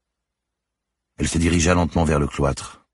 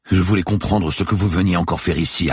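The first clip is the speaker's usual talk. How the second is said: slightly raised character voice; uneasy guard; 6 semitones higher, 4 dB louder than usual. A narrator's reading. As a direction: explain yourself to the policeman. Guard's dialogue voice. (gardien inquiet, voix haussée)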